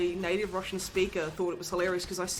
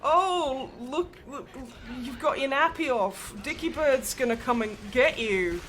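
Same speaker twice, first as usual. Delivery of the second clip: put-on higher-pitched mum warning a child; imitated mother; 4 semitones higher than usual. Mother warning her son during a nappy change, imitated higher voice. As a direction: play a mum's teasing warning. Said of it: "my mother being like".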